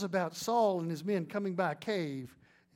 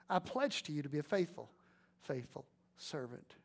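quiet pledge; 3 semitones lower, 5 dB quieter than usual. Retold or imitated. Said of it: "he yells to his master".

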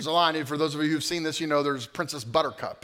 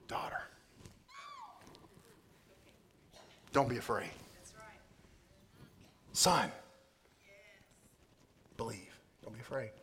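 much softer, hushed reassurance; comforting words; 11 dB quieter than usual. Acted. Jesus comforting a fearful daughter, hushed and tender. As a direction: speak it tenderly, almost under breath.

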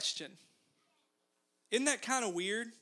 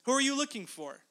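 humorous, teasing question; 4 semitones higher, faster than usual. Retold or imitated. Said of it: "he adds a humorous other question".

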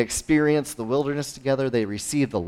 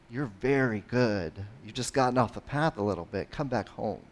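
gentle invitation; 6 dB quieter than usual. Retold or imitated. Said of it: "even though it sounds so angry and mad".

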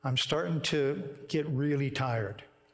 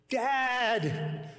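lightly voiced distant child calling Dad; a hint of a small boy calling out; little boy's voice; 9 semitones higher than usual. Son calling his tired father mid-race, lightly voiced child. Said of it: "It's getting louder".

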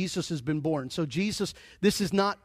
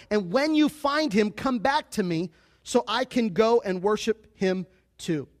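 raised, projected Bible reading; scripture reading; 3 semitones higher than usual. Acted. Preacher reads the wise men story to the church, proclaimed scripture reading. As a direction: read the passage out in a lifted public voice.

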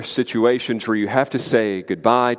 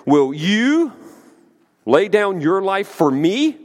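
raised pitch on a pointed "you", rising at "me"; emphatic sarcastic question; 5 semitones higher, slower than usual. Acted. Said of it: "the sarcasm in that question".

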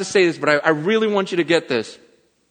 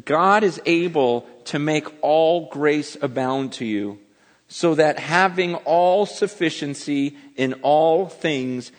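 scripture reading; 4 semitones lower than usual. Real, not acted. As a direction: read the verse aloud to the congregation, measured. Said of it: "says this".

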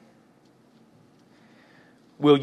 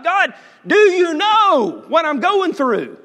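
lightly voiced plea; 8 dB louder, slower than usual. A believer's plea to God.

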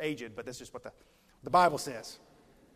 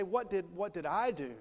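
put-on child's plea; 3 semitones higher, 4 dB louder than usual. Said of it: "they begin to say".

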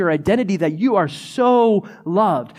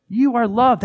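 emphatic repeat; 5 semitones higher than usual. Real, not acted. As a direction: lift it up as a bold declaration. Pastor repeating it with force.

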